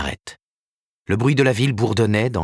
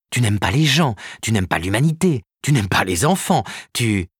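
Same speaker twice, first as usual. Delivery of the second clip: higher, rising passion; lightly voiced Karen, passionate; 4 semitones higher than usual. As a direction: argue with growing fervour.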